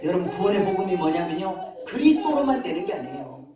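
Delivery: usual speaking voice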